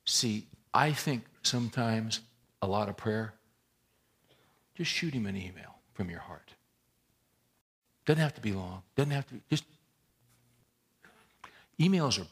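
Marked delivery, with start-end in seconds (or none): 4.7-6.5 whisper. Real, not acted. Whispered key line.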